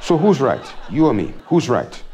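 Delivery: lightly voiced wife, triumphant; a hint of a gloating wife; wife's voice. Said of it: "she said".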